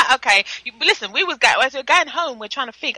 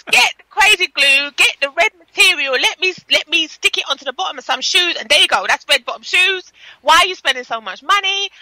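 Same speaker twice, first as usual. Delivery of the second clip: raised-pitch mock exasperation; retold scolding mother; 4 semitones higher than usual. Retelling a mother's glue advice, mock exasperated. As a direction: mimic an exasperated mother laying down instructions. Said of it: "She was going crazy".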